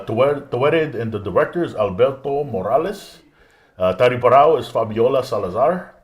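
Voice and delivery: put-on names read in a Spanish accent. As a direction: roll the names like a Spanish speaker. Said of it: "my Spanish accent there".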